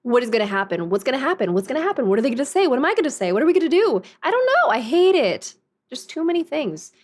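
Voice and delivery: spiral into mock panic; anxious. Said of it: "going with the flow makes me anxious".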